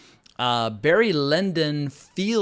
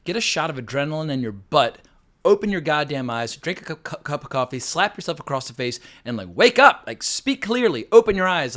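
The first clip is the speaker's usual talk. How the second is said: rising into shouted orders, louder each line; mock exasperated rant; 4 semitones higher, 6 dB louder than usual. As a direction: bark it like a fed-up wake-up call. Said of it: "I just wanna say, like".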